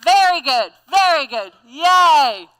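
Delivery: loud cheering with the group. Shown as a demonstration. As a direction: cheer along with everyone. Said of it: "Can y'all do it with me".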